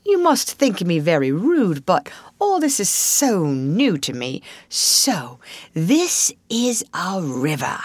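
lightly voiced Mole, wonder-struck newcomer; drawing out the last words in mild awe; eager, apologetic Mole. Mole apologises to Rat on first seeing the river, lightly voiced wonder.

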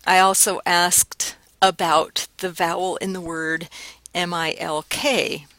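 ordinary delivery

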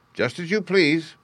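high, offended just as you please; huffy old duck. A narrator's reading. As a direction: say it with a huff. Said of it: "said the old duck".

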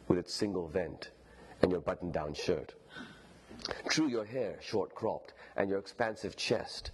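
lightly voiced proper British upper-class narrator; a hint of old-world English politeness, vaguely menacing; Chingiz, formal and old-fashioned. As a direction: read with measured, courteous formality and deliberate pauses. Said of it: "this is what it sounds like".

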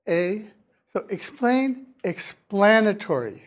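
"explain" with ay against "explanatory" with short a; vowel change demo. Shown as a demonstration. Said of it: "the vowel A".

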